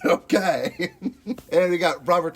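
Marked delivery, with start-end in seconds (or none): 0.0-0.9 catchphrase in an actor impression; hammy imitation of the actor's catchphrase; Al Pacino. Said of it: "can't say anything else like him".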